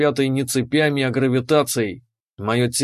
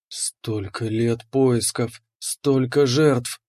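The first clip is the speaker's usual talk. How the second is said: trembling with ecstasy; much slower than usual. Acted. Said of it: "голос дрожал от экстаза".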